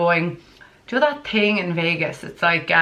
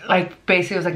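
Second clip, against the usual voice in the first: ordinary talk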